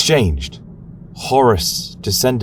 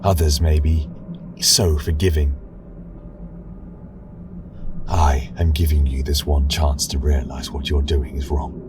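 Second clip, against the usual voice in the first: cool, lower, quieter verdict; cold; 3 semitones lower, 3 dB quieter than usual. Acted. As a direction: speak down to her without warmth. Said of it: "he said coldly".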